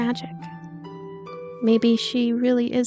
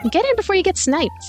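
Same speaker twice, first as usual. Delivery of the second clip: high, urgent call; urgent shout; 8 semitones higher than usual. A narrator's reading. Car passenger urging friends in under gunfire, urgent call. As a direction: hurry them in with a raised pitch.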